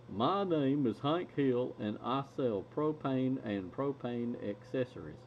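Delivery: put-on slow, lightly drawn Texas accent as Hank Hill; a mild Texas drawl, taking it slow like Hank Hill; a hint of Hank Hill's Texas twang; Hank Hill impression. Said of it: "Let's see if I can do it".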